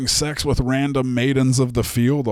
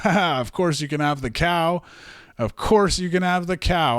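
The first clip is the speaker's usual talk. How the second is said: mock nervous; 6 semitones higher than usual. Zeus nervously placating Hera.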